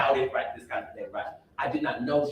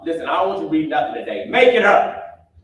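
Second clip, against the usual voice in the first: grandmother commanding; 3 semitones higher, 9 dB louder than usual. Retold or imitated. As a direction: hand down an elder's order. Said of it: "My grandmother would say".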